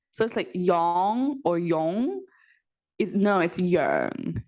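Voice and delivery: slow, careful "yearn" against "yang or yong"; pronunciation demo. Shown as a demonstration. Explaining how parents mispronounce yearn, slowly. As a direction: draw out "yearn" slowly to show the sounds. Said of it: "The difficult word for".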